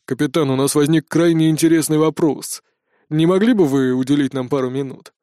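calm, courteous request; polite colonel. A narrator's reading. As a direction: colonel smoothing things over politely. Colonel politely asks captain.

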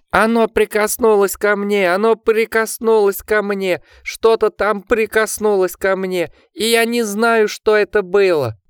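panicked shrieking. A narrator's reading. Richard trembles in Jack's arms, shrieking in terror. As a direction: scream it over and over in panic. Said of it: "пронзительно взвизгнул он".

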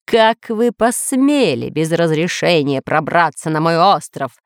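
mildly booming outrage; thundering. Acted. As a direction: demand it as an offended overlord. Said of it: "гремел сверху голос повелителя".

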